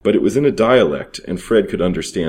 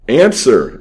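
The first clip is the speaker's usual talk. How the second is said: loud, higher barked order; insistent demand; 5 semitones higher, 7 dB louder than usual. A narrator's reading. Thief demanding an answer from the boy, loud and insistent. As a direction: demand it hard. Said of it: "insisted Pierre".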